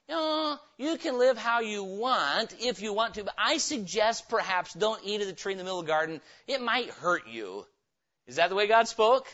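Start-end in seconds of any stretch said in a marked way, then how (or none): 0.1-7.7 a hint of a casual, suggesting voice; mock permissive God. Preacher parodies a God who only suggests, casual. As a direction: make it a shrugging suggestion. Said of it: "God didn't say".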